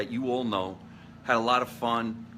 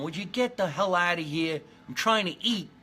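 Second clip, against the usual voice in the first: higher, fussy squirrel shooing off the lawn guy; hammed-up cranky squirrel, clearly higher; annoyed squirrel; 6 semitones higher than usual. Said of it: "you got twenty squirrels going".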